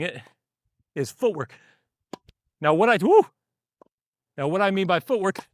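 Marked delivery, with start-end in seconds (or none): 3.0-3.3 high, loud woo; excited woo while hitting. Real, not acted. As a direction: let out a quick whoop as the shot goes. Exclaims during a hit.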